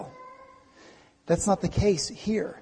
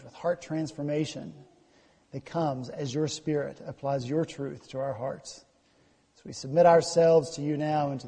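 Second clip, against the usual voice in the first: softer, measured public prayer; 4 semitones lower, 5 dB quieter than usual. Real, not acted. Pastor to God before the sermon, prayerful. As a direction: pray humbly on behalf of the people.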